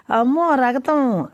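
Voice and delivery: put-on slow, high crying child. A narrator's reading. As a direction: wail at the sight of blood. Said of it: "ఏడుస్తూ". (ఏడుస్తూ నెమ్మదిగా)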